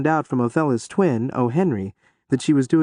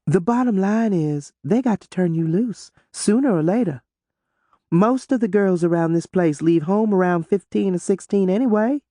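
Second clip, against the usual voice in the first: smug; 5 semitones higher than usual. A narrator's reading. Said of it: "Othello said with a smug look".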